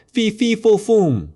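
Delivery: high, loud booming ogre chant; giant's roar. Acted. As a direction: bellow it like a monstrous ogre. Ogre's famous giant chant.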